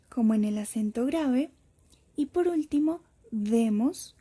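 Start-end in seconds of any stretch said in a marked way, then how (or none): 3.3-4.1 "demos" with the stress on de; circumflex as stress. Shown as a demonstration. Teacher showing the circumflex as intensity, first syllable stressed. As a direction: say "demos", leaning on the first vowel. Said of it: "como en el acento circunflejo".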